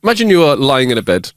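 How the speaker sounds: "lying" said deliberately and correctly; careful restart. Real, not acted. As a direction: restart the line with a clear "lying". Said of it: "laying, lying, lying".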